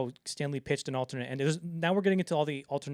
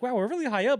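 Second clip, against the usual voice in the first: mock Wendy; 10 semitones higher, 8 dB louder than usual. Imitating Wendy in the movie.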